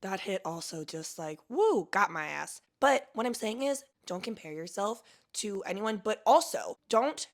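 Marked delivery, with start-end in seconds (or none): 1.5-1.9 high-pitched woo after a hit; sudden rising woo. Real, not acted. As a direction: let out a quick whoop of being hit hard. Reacting to the hit.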